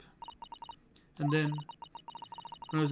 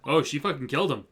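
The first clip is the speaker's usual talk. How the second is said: stunned exclamation; 8 dB louder than usual. Real, not acted. Reacting to game reveal.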